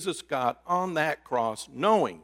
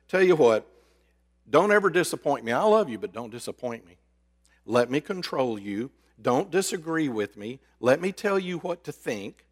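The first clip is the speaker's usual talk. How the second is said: controlling partner; 3 semitones higher than usual. Acted.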